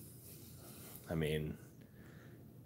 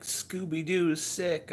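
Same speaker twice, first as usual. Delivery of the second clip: imitating sleepy wife; 12 semitones higher, 3 dB louder than usual. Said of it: "And she's like".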